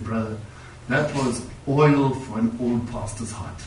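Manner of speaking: quiet, slowed, tender words of thanks; a moved, gentle thank-you in a lightly voiced older man; heartfelt old pastor. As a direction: relay an old pastor's grateful words softly. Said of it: "That's how he said it to me".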